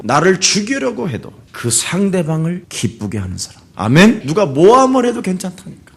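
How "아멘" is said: ordinary talk, nothing marked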